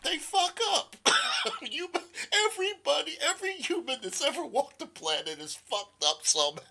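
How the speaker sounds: high, squealing laugh through the words; laughing while talking. Real, not acted. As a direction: barely get it out for laughing. Helpless laughing at own remark.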